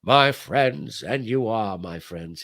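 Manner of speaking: lightly imitated grand radio orator; a hint of presidential address; FDR. President addressing his friends, lightly imitated oratory. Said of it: "who was a great orator".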